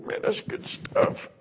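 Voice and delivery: stoner voice. Retold or imitated. Mimics stoner savoring weed.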